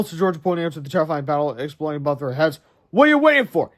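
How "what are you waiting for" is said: urgent high voice. Acted. George urges Krabs on.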